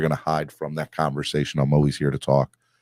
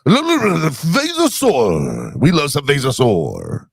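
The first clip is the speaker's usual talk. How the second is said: lightly put-on Vasosaur character voice, higher; 8 semitones higher, slower than usual. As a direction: ham up the Vasosaur bit a little. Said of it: "you could do the, uh, the Vasosaur".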